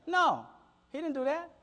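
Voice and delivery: pitched high, leaning hard on didn't; emphatic denial. Acted. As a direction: insist it firmly, didn't rising. Preacher insists God didn't bankrupt them.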